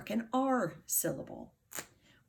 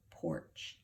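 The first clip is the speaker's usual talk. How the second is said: soft blend; 5 dB quieter than usual. Shown as a demonstration. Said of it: "P or ch".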